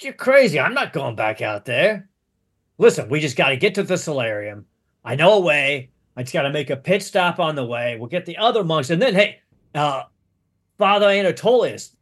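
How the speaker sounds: lightly voiced insistent monk; jumpy pitch, mildly exasperated and pressing; agitated monk. Monk refusing to go back out, urgently pitching another plan.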